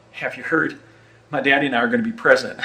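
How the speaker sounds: mock boastful young Texan, rushed; quick mock announcement, a bit breathless; imitating young George W. Bush. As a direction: blurt it out like an excited young heir. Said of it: "let me try that again".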